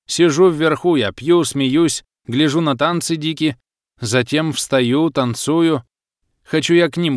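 lightly voiced trance, rhythmic verse delivery; entranced fisherman reciting. Swaying fisherman recalls foggy visions to the narrator, entranced recitation. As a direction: recite visions in measured, emphatic phrases.

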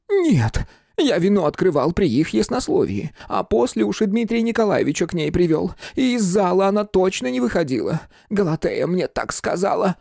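высокий торопливый голос фамильяра; отрицай горячо и тонко; горячо оправдываясь. Acted. (фамильяр оправдывается, высоким голосом)

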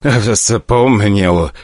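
shaky frightened admission; terrified director conceding; trembling. Acted. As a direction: answer while shaking all over. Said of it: "дрожа всем телом".

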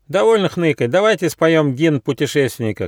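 high, loud rallying call; shout. A narrator's reading. Squirrel Ryzh calls the whining friends to sing, loudly. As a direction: rouse the group with a high call. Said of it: "крикнул Рыж".

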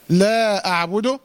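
drawn-out Quranic recital of لا أعبد, the madd on لا stretched; slow tajweed recitation. Shown as a demonstration. Teacher reciting لا أعبد slowly for the student. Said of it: "عند المد هنا مد إيه".

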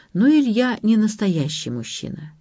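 ordinary delivery

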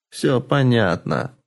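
a flat, even voice hiding rage; level, cold. Acted. Madam realising the girl is a lab creature, even and cold. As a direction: say it evenly, barely holding back. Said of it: "произнесла старуха ровным голосом".

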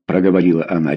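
ordinary delivery, nothing marked

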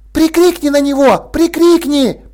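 put-on high, eager child's plea; excited kid. A narrator's reading. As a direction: bounce and beg, high and excited. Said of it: "просил он". (мальчик радостно упрашивает Сьюзен, высоко и возбуждённо)

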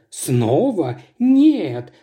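stretched, rising dismay; dismayed drawn-out no. Acted. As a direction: draw out the no in disbelief. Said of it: "протянула сестра".

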